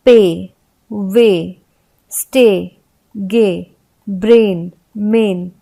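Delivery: पे, वे, स्टे said with a stretched ए; long vowel demo. Shown as a demonstration. Teacher to students, stretching the vowel. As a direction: hold the ए a little longer. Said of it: "लेकिन ये कुछ लंबा जाता है".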